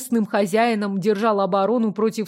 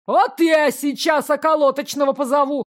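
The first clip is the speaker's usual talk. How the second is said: higher, squealing threat; falsetto threat; 5 semitones higher, 3 dB louder than usual. Acted. Steward threatens to call the constable, falsetto squeal. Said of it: "взвизгнул фальцетом".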